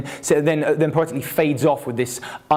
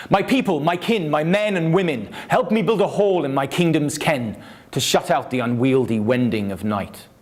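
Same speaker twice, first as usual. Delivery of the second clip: a lightly raised, declaiming voice for a troubled king; dramatic king's speech. Shown as a demonstration. Poet reading Hrothgar's verse to the audience, lightly dramatised. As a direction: read it out like a king addressing his people. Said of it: "I'll try and drama it up a bit".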